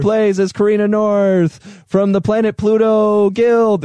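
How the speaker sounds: announcer intro. Shown as a demonstration. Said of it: "you can add the".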